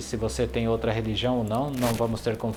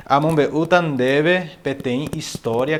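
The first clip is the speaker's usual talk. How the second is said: slower; 4 semitones higher, 5 dB louder, slower than usual. Shown as a demonstration. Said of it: "Vou falar mais devagar que eu tô falando muito rápido".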